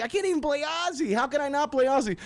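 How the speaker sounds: ordinary talk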